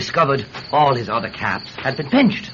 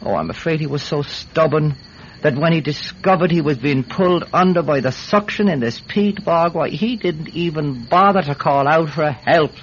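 raised pitch, mounting insistence; agitated explanation; 3 semitones higher than usual. Acted. Man explaining to judge why his friend never called out, agitated. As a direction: build to an emphatic finish.

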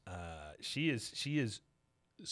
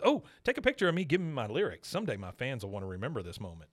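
mock excited Peggy; faster than usual. Peggy begging for a photo with a country singer, fast excited chatter. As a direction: gush it out quickly.

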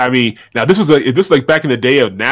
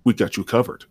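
a hint of a ringmaster barker. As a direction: hype up the merch like a circus host. Merch announcement, ringmaster intro.

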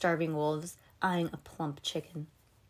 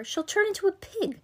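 put-on high girl voice; 13 semitones higher, 5 dB louder than usual. Twin warns.

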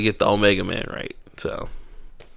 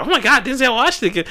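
mock starstruck fan; 9 semitones higher than usual. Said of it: "for the white folks, it's like".

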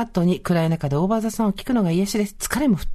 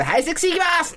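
high, peppy call to action; mock announcement; 10 semitones higher than usual. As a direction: announce it high like starting a routine. Acts announcing sexy mode at home.

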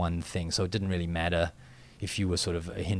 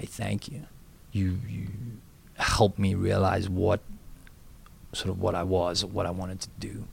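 sincere thanks; 4 dB quieter than usual. Retold or imitated. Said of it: "I just would have wanted to say".

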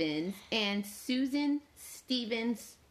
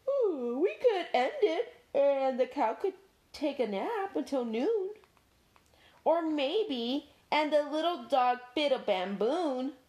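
smirking Dog; 6 semitones higher than usual. Acted. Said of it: "Dog smirked".

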